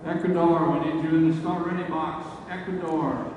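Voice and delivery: loud PA call across the range. Real, not acted. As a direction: call the team to the start box. Calling teams to start box.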